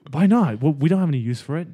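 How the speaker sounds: indignant. Acted. Arguing to give money.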